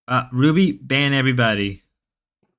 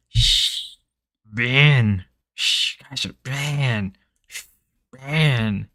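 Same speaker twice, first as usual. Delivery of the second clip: mock Ruby voice; much slower than usual. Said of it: "how does the Grace out the Ruby boy".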